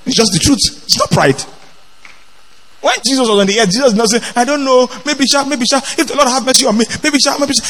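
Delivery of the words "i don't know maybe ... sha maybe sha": mock unsure dithering. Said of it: "Jesus did not talk like that".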